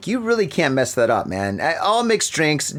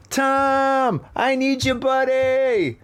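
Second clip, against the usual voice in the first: mock pleading; 10 semitones higher, slower than usual. Misses absent co-host Tom.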